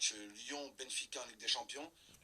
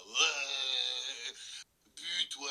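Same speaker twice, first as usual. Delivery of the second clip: goal celebration; 3 semitones higher, 7 dB louder, much slower than usual. Retold or imitated. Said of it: "ils fêtent ça".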